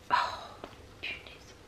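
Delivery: whispered grumble to herself while stuck; juron chuchoté. Real, not acted. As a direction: pester tout bas, presque sans voix. Bute sur un mot, peste tout bas. (juron chuchoté pour soi)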